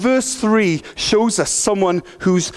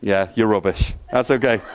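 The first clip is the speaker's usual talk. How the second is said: pirate voice; 9 semitones lower than usual. Acted. Teasing the crowd in pirate voice.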